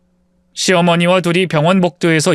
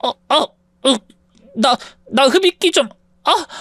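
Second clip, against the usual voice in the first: broken, gasping for air; choking on an asthma attack, begging for the inhaler; 4 semitones higher, slower than usual. Acted. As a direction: struggle to get each word out between breaths. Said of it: "숨을 제대로 쉬지 못했습니다".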